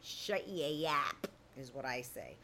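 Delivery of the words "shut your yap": low, slow, soft put-down; drawn out under the breath; blunt retort. Acted. Host to gossips who won't mind their business, blunt low retort.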